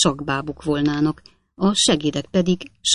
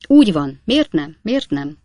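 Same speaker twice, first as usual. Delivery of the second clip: indignant; 4 dB louder than usual. Acted. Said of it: "felháborodva".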